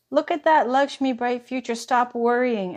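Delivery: excited. Real, not acted. Excited at drawing Lakshmi.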